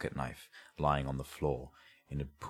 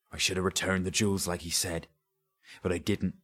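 higher, rising dialect voice; agitated, remorseful thief; fearful regret; 4 semitones higher than usual. Acted. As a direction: confess with mounting dread. Trembling Sketch confesses in dread.

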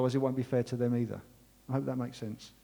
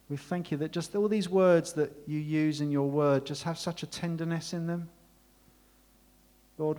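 congregational prayer. Acted. Pastor prays aloud over his congregation, earnest then hushed.

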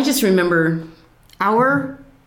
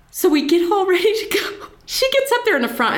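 laughing; 12 semitones higher, faster than usual. Real, not acted.

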